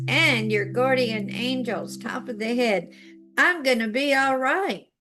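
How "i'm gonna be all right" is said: firm, commanding declaration; authority voice. Shown as a demonstration. Teacher showing viewers how to command the body. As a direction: tell your body it's settled. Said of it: "bring your authority voice".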